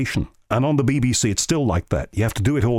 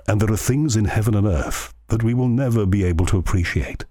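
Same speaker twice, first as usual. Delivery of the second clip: lightly imitated posh, spooky radio preacher; a hint of a posh, spooky Thought for the Day speaker. Radio host retells a religious Thought for the Day, in a lightly posh voice. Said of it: "his very posh voice".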